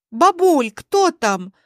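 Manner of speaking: a hint of a teenage girl; young girl's voice. A narrator's reading. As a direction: call to grandma from another room. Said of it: "раздался молодой голос из глубины квартиры".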